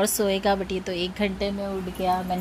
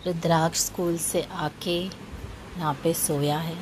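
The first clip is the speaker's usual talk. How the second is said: speaking softly; 6 semitones lower, 7 dB quieter than usual. Real, not acted. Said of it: "मैं इसलिए धीरे धीरे बोल रही हूँ".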